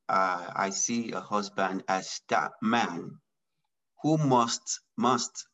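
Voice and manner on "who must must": "must" repeated and pressed firmly, each time weighted; stress on must. Real, not acted. Guest stresses a husband's duty to the host, firmly stressing "must". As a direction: lean hard on "must", twice. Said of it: "I emphasize the word must".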